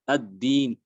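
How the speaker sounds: Ad-din ending with a faint trace of i; raum on kasra. Shown as a demonstration. Teacher demonstrating raum on kasra. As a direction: close Ad-din with a quick ghost of i. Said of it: "dibaca seperti ini".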